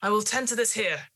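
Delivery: put-on old gardener telling the lady to go; urgent gardener. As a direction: send her away firmly. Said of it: "as much as like".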